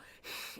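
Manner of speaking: short voiceless hissy breath; quick imitated scared-cat puff; a sharp little rush of air; startled cat hiss. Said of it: "she's just gonna go".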